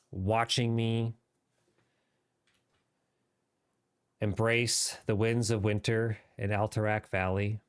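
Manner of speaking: light British RP gaming voice; modern british accent. Pretend. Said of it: "there's my mini R P voice".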